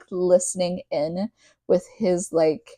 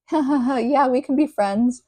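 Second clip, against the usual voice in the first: higher voice with a fake ha-ha laugh; mock chuckling agreement; 6 semitones higher than usual. Vampire agreeing to be friends, mock-jovial. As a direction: chuckle it out as a hammed-up quote. Acts out Edward's joking agreement.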